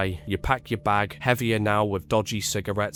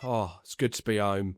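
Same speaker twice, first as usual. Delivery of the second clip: muttered; 2 semitones lower, 6 dB quieter than usual. Retold or imitated. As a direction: mumble it to yourself, defeated. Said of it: "you mutter".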